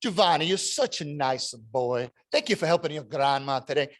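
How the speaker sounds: a hint of Italian accent as she praises the boy; Italian grandma accent. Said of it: "This heavy Italian accent".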